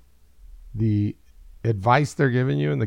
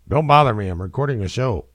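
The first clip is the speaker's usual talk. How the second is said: dad voice; 3 dB louder than usual. Retold or imitated. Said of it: "If I were my dad, I'd be like".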